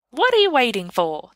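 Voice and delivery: the enchanted mistletoe insisting; demanding mistletoe. A narrator's reading. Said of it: "the mistletoe demands".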